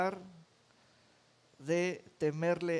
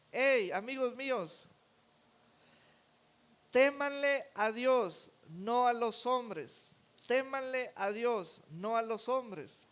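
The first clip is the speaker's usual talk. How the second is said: earnest urging; 5 semitones higher than usual. Acted. Jesus voiced urging his friends.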